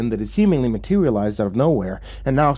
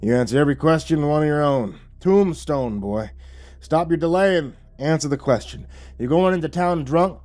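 higher, impatient interrogation; exasperated lawman; 5 semitones higher than usual. Acted. Wyatt Earp pressing stranger for an answer, exasperated. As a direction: demand an answer with mounting irritation.

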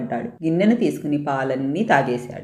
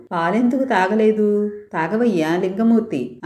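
mild pleading, a bit higher; gently begging the idol to drink; 5 semitones higher than usual. Acted. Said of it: "ప్రాధేయపడింది". (మెల్లగా ప్రాధేయపడుతూ)

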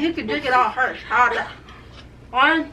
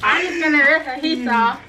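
lips stretched. Real, not acted. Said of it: "This feels so weird".

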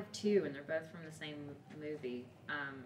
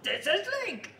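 higher, slow Rocky imitation; Rocky impression; 8 semitones higher, 4 dB louder, slower than usual. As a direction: do Rocky introducing his turtles. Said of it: "It's from Rocky".

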